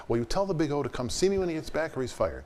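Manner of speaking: retold firing threat; imitating a threatening Dorothy. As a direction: deliver the ultimatum. Dorothy threatens to fire him.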